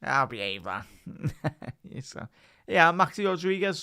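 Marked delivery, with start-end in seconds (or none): 2.7-3.8 excited shout. Real, not acted. Hyped shout of player's name.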